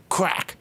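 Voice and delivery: mimicked whip crack. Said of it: "You hear the crack".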